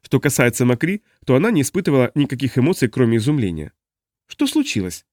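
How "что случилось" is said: put-on high young woman's puzzled question; innocent, high-voiced warrior girl asking; Makri asking. A narrator's reading. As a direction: lift it up in Makri's voice. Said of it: "спросила она".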